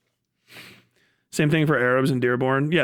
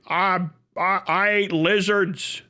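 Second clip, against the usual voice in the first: desert hick voice; 3 semitones higher, slower than usual. Retold or imitated. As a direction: play a brain-cooked desert kid, drawn out. Voicing a desert Californian.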